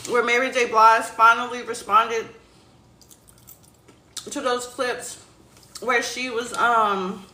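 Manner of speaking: talking with mouth open. Real, not acted. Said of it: "I'm not used to talking with my mouth open".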